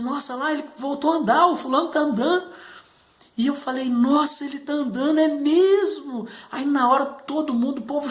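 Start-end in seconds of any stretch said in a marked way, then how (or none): 0.0-2.5 high, eager gasp of amazement; excited friend. Retold or imitated. Childhood friend telling him the boy is walking, high excited exclaim. 3.9-6.3 high, drawn-out astonished question; amazed child. Retold or imitated. Boy answering his friend in church, high astonished disbelief.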